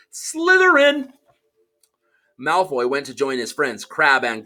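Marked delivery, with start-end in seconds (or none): 0.1-1.1 high, loud, slow scream; shrieked proclamation; hat screaming. Acted. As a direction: scream the house at once. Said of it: "when it screamed".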